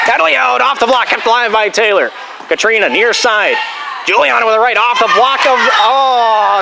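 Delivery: excited volleyball commentary; live play-by-play. Real, not acted. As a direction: follow the ball and burst into a reaction.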